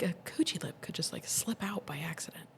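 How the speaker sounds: hushed, confidential aside. Real, not acted. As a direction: drop to a near-whisper for the rude bit. Lowers voice for a crude remark.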